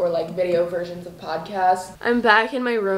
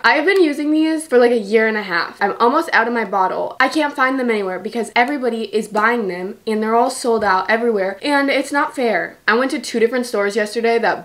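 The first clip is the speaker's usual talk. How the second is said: louder, higher frustrated rant; pissed off; 3 semitones higher, 4 dB louder than usual. Real, not acted. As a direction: vent your annoyance, louder. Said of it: "I'm literally so pissed off".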